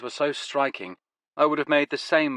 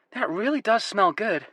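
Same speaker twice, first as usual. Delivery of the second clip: American woman; 11 semitones higher than usual. Acted. Woman character voice.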